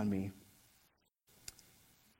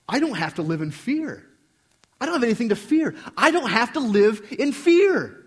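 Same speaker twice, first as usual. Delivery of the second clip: rising declaration; 7 semitones higher, 8 dB louder than usual. Retold or imitated. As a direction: declare it louder each time until it rings out. Inner thought rising to a shout.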